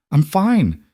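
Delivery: forcing the words out, trembling. A narrator's reading. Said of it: "through chattering teeth".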